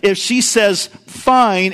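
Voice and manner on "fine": "fine" said curt and clipped, falling; a short, cold "fine"; sharp negative fine. Shown as a demonstration. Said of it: "in a sharp kind of negative tone".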